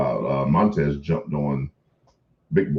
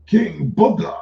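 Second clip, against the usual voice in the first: high, loud, rising mock British proclamation; King Booker's fake British accent; 13 semitones higher, 5 dB louder, slower than usual. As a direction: announce yourself like a pompous fake British king. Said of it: "when he was using a fake British accent".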